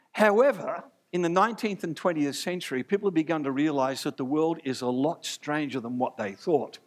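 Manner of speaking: lightly imitated English professor accent; a hint of put-on English accent. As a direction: quote an academic in a mild English accent. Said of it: "that's an English accent, I can't do the, uh, Scottish one".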